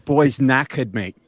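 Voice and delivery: hammed-up British mate talk, drawn out; terrible British accent. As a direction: do a bad mock British accent. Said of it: "for that terrible accent".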